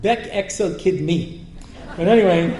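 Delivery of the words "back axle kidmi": "back axle kidney" in an Israeli accent, like "bek eksel kidmi"; mock Israeli accent on "back axle kidney"; Hebrew accent. Shown as a demonstration. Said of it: "you say front axle".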